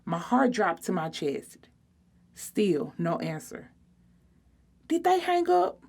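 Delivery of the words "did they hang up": much higher alarmed gasp; stunned gasp; gasped question. A narrator's reading. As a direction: catch your breath in shock. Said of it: "Naja gasped".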